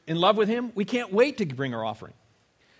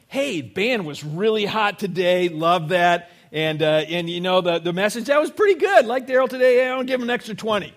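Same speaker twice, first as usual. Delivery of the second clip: gushing churchgoer; 3 semitones higher, 6 dB louder than usual. Retold or imitated. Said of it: "if you're walking in here and going".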